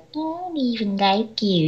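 slow, high, soft mimicking whine; immature mocking. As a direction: parrot the student back like a baby. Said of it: "that's what you sound like".

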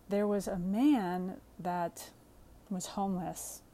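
slow, tearful, voice catching; fighting back tears, slowly; voice breaking. Real, not acted. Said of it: "I'm gonna kind of start to cry".

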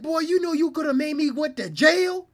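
high, loud mock scolding; furious mom. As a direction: scold the son at full tilt. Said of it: "She said".

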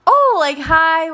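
high, re-enacted startled hello; surprised greeting. Student answering strangers at a table, surprised and high. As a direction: pitch it way up, caught off guard.

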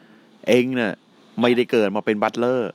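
lightly voiced low mentor; mentor's pronouncement. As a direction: pronounce it like a solemn elder. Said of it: "ณเทศแกพูดอีกคำหนึ่ง".

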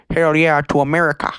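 lightly voiced cowboy cheer; a hint of mock cowboy. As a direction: play at being a patriotic cowboy. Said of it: "make you talk like a cowboy".

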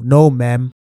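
"ma'am" set apart and pointed; stress on MA'AM. Retold or imitated. Politely refusing an older woman, stress on "ma'am". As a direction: land deliberately on "ma'am" in a low polite refusal. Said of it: "I put emphasis on that ma'am".

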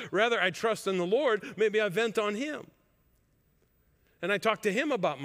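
fervent preaching build; preaching with force. Real, not acted. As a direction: press the point hard to the congregation. Preacher building on anger theme.

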